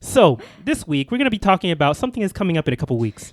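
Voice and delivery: rushed, buzzing delivery; talking fast. Real, not acted. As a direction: rattle it off quickly. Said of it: "You're actually talking really fast".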